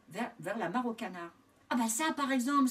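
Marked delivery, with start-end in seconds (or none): 1.7-2.7 louder, higher farmer's exclamation; astonished cry. A narrator's reading. First farmer spotting the piglet, crying out in surprise. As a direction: call out in acted amazement. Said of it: "s'écria le premier".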